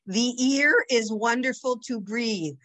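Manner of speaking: lightly imitated Brooklyn teacher; Brooklyn accent. Teacher putting the word in a sentence, Brooklyn accent. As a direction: read it out in a Brooklyn accent, "ear" for air. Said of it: "that was the Brooklyn accent".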